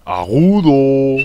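high swoop, held long; voz aguda. Shown as a demonstration. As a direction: send the pitch up high. (voz aguda, alargada)

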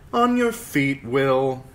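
loud, high lordly command. Acted. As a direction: bark the order down at him. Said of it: "Sir Waymar commanded".

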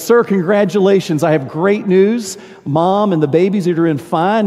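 beaming nurse breaking happy news; cheerful nurse. Acted.

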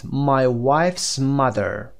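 "My wife's mother." said very slowly, each word apart; slow model phrase. Shown as a demonstration. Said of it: "یاد بگیریم". (خیلی آهسته و شمرده)

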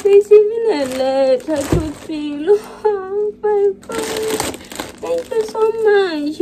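high, tearful voice breaking with gratitude; choked up with thanks; emotional, near tears. Real, not acted. Vlogger reading a letter in a gift, tearfully grateful. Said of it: "I feel so emotional".

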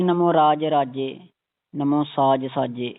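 ਰਾਜੇ and ਸਾਜੇ with a pressed "j"; firm, spoken model of ਰਾਜੇ, ਸਾਜੇ; slightly tightened. Shown as a demonstration. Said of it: "ਇਹਨੂੰ ਥੋੜ੍ਹਾ ਜਿਹਾ ਕੱਸ ਕੇ".

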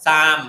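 "ซาม" said as "sam" instead of zyme, loud; wrong pronunciation. Shown as a demonstration. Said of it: "ไม่เอา". (ออกเสียงผิดเป็น "ซาม")

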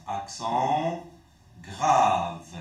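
grave dropped low and loud; emphatic teaching. Shown as a demonstration. Teacher drilling the name of the accent, stressed. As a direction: hit grave low and hard.

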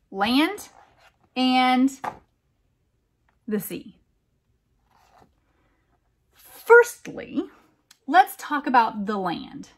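gentle, lilting read-aloud voice; storybook narration for a little one; reading to a child. Acted. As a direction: read it like a bedtime picture book. Reads a picture book aloud.

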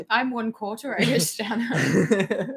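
laughing Irish brogue; Irish lilt through a laugh; Irish accent. Acted. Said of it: "turn off the accent".

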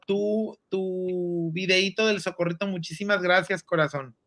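talking through hiccups; hiccuping. Real, not acted. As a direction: hiccups breaking the words. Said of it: "Ahí tengo hipo".

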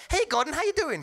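a hint of a breezy Obama greeting. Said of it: "Obama's like".

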